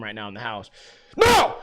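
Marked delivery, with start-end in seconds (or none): 1.2-1.6 much higher, louder mock scream; mean angry voice. Shown as a demonstration. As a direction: shout a sharp command at a dog. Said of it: "angry voice. I don't wanna scream".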